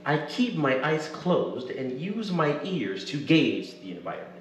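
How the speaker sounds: first-person audiobook narration; story narration. Acted. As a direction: read it like an audiobook. Reads own novel aloud.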